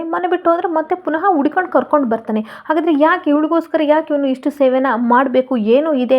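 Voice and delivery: mild angry shouting. Acted. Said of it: "ಕೂಗಾಡ್ಕೊಂಡು ಹೇಳ್ತಾ". (ಕೂಗಾಡುತ್ತ ಹೇಳುವುದು, ಸ್ವಲ್ಪ)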